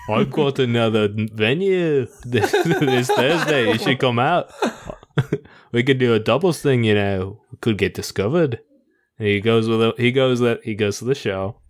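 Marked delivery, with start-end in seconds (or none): 0.1-8.6 put-on laughing Australian accent. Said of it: "I'm doing, like, Australian".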